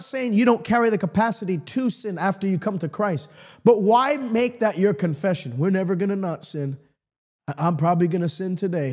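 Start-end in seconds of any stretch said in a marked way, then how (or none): 5.6-8.9 low, resigned imitation of a defeatist; mock resignation. Preacher imitating believers who expect to sin, mock resignation. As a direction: mimic someone giving up, in a lower voice.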